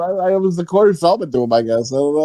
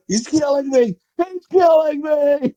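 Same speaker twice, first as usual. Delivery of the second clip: imitated victim cry, climbing higher and slower; mock movie yell; 5 semitones higher than usual. Recalling a misheard movie line for cohosts, mock yell. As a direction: build into a hammed-up, drawn-out yell. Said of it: "he was yelling, like".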